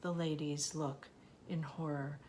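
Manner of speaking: measured poem recital with deliberate pauses; poetry reading. Acted. Reader shares a favorite poet's work, measured poetry reading. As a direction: read it as verse, pausing between phrases.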